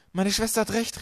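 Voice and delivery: high, loud protest; calling out. A narrator's reading. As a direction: shout it up in protest. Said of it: "rief Violet". (hoch und laut gerufen)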